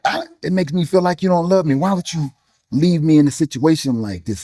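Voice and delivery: anguished plea to God. Retold or imitated. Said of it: "I've told God".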